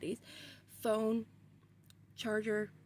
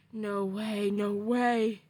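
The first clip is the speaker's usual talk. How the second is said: retold building disbelief; 5 dB louder, much slower than usual.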